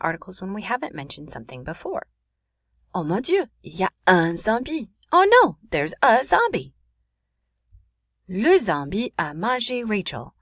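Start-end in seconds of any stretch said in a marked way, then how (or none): 2.9-4.9 hammed-up alarm. Teacher acting out a zombie sighting for students, mock panic. 5.1-6.7 loud, high, drawn-out mock alarm; hammed-up panic. Teacher translating the zombie sighting for students, hammed-up panic. 8.3-10.3 slow, dramatic French announcement of horror; mock horror. Teacher acting out Rachel's zombie attack, mock horror.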